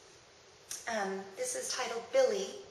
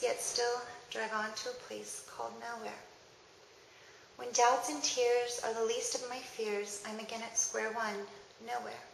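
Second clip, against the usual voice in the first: measured recital with pauses between verses; poem reading. Acted. Reading a daughter's poem to listeners, measured poem recital. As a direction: let each verse settle before the next.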